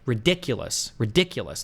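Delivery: ridiculous with the second syllable "dic" stressed, then falling; demonstrating the stress in ridiculous; stress on DICK. Shown as a demonstration. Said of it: "The accent would go over dick".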